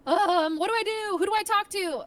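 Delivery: high, loud flustered questioning; mock panic. Acting out being lost without guidance.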